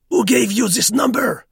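high, loud, irritated squeak; irritable squeaky voice. A narrator's reading. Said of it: "His voice squeaked irritably".

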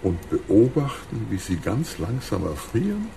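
langsam, leiser, genießerisch; genüsslicher Schurke. Acted. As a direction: koste jede Mordidee aus. Krug plant langsam Mord. (langsam schwelgender Bösewicht)

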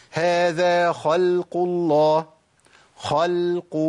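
slow recited خلق with thin lam between heavy letters; light lam. Shown as a demonstration. Teacher models the new example, light lam in خلق. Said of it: "اللام مش، مش مفخمة".

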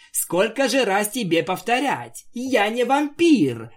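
mock-angry pony protest. A narrator's reading. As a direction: angrily insist she's no vampire. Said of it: "разозлилась Твайлайт".

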